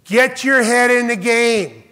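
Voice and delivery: emphatic slow coach's order; coach's command. Retold or imitated. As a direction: bark it like a high school coach, slowly. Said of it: "Just remember my coach in high school".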